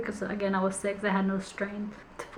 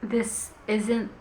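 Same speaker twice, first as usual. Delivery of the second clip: emotional. Real, not acted. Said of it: "this is making me emotional".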